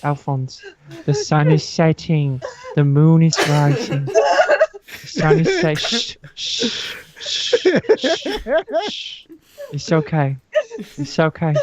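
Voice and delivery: half-joking soothing hush; calm him like a child, playfully; mock soothing. Soothing upset Alphonse, a mock gentle hush. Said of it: "I soothe".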